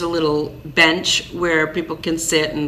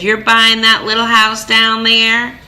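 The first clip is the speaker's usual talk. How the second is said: incredulous neighbor; 4 semitones higher, 5 dB louder than usual. Retold or imitated. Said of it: "Did she say it just like that?".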